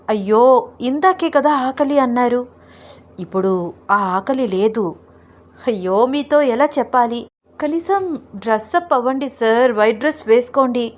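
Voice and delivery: lightly voiced bashful wife, pitch lifted; coy pleading wife. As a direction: wriggle out of it with teasing excuses. Roopa keeps pleading playfully.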